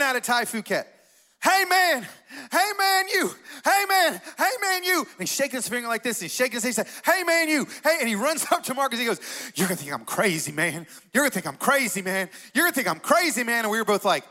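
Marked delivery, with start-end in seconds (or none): 1.4-5.0 high-pitched hollering redneck caricature; over-the-top redneck. Retold or imitated. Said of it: "redneck human being". 7.0-8.0 high-pitched hollering redneck caricature; over-the-top redneck. Retold or imitated. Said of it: "redneck human being". 9.5-13.6 imitating an insistent redneck, climbing in pitch; over-the-top redneck. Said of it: "redneck human being".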